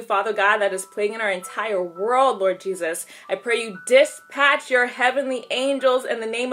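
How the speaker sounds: steady, flowing prayer to God; earnest prayer. Real, not acted. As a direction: pray sincerely, phrase by phrase, dropping on each address.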